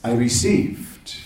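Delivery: a slow, humble "I received"; the right way. Shown as a demonstration. To the devotees, correcting himself, humbly and slowly. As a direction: let "received" sound like a gift accepted. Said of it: "this is a better way to say it".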